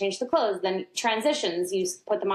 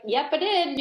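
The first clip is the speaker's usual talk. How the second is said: put-on higher, cheerful little boy; toddler's voice; 7 semitones higher than usual. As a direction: lightly voice a proud toddler, pitched up. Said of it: "And he's like".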